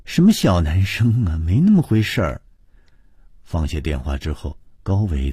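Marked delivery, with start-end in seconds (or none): 0.0-2.4 hedging, mildly evasive denial; 支支吾吾. Acted. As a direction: brush it off, a touch flustered. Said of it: "他只好支支吾吾地说". (略带支吾地否认)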